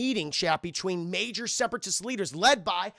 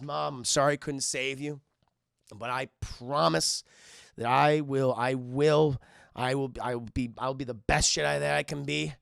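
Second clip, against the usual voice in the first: grieving son; 4 semitones lower than usual. Retold or imitated. Anakin grieving at mother's grave.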